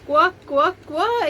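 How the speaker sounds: high, lightly imitated duck quacks; playful mock duck call; duck quacking. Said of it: "It goes on quacking like a duck".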